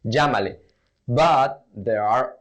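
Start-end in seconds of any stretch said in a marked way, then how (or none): 0.0-0.6 llámale with LL as zh; J sound. Shown as a demonstration. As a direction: say llámale "zhah-ma-leh". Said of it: "with the J pronunciation".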